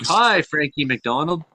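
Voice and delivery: slow mock greeting from restaurant staff. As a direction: stretch out a pretend hello from the staff. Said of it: "to get the staff to be like".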